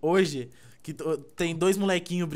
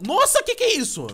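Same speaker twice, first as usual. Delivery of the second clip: much higher, louder startled yelp; squeaky surprised cry; 7 dB louder than usual. Retold or imitated. The meme boy spinning around, a much higher startled squeal. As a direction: squeal it in cartoon shock. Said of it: "Aí ele vira no giraião".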